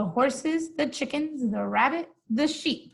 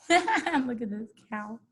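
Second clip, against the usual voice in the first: laughing. Real, not acted. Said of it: "This is making me laugh".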